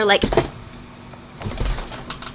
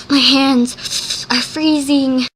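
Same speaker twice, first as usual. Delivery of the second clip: mock shivering; 3 semitones higher, much slower than usual. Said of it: "she was freezing".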